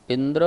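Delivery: इंद्र said carefully for echoing; careful recitation. Shown as a demonstration. Teacher leads the class in correct sutra pronunciation, careful recitation. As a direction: model इंद्र clearly, rising at the end. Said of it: "सूत्र का शुद्ध उच्चारण करते हैं".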